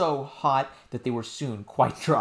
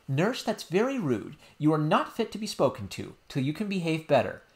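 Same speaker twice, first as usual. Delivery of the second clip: reproving princess; 4 semitones higher than usual. Acted.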